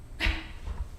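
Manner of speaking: brief, very soft breathy laugh; quiet huff of a laugh. Retold or imitated. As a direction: let out one small voiceless laugh in retelling. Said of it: "I laughed".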